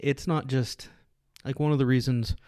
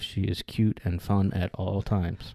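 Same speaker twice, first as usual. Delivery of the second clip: deliberate recital, loud start settling lower; mock-solemn declaration; 3 semitones lower, 4 dB louder than usual. Husband jokingly clears himself about his wife, mock-solemn declaration. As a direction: recite it like a forced statement.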